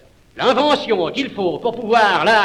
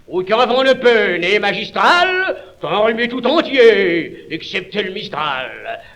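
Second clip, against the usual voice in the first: emphatic. Acted. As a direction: declaim it with emphasis.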